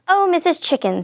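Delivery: lightly sugared, coaxing hello; sweetly. A narrator's reading. Wolf coaxing Missus Chicken at her door, sweetly. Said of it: "said Big Bad Wolf sweetly".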